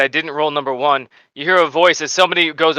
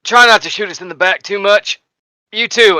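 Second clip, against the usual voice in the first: lightly voiced sergeant, slightly raised; sergeant's orders; 5 semitones higher, 3 dB louder than usual. Sergeant warning gunners behind him, lightly voiced and raised. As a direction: pitch it up a touch to warn the gunners. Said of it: "looks over at you and he goes".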